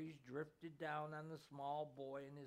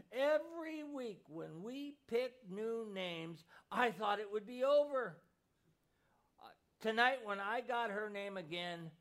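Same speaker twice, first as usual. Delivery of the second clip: put-on higher, louder, tearful child's voice; choked-up boy; 4 semitones higher, 5 dB louder than usual. A narrator's reading. Boy sobbing his confession to his mother, higher and louder. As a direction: blurt it through tears like a heartbroken boy. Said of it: "the little boy choked".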